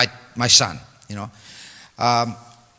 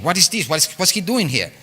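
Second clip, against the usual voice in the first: annoyed demand; 5 semitones higher than usual. Retold or imitated. Guru displeased to see the boy, higher sharp demand. Angry guru questions Maharaj.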